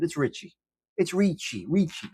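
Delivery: Ricci said as REE-chee with a ch; Italian pronunciation. Shown as a demonstration. Telling chat how the name goes, Ricci with a ch. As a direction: say Ricci like an Italian would, ch sound. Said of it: "If you show that name to an Italiano".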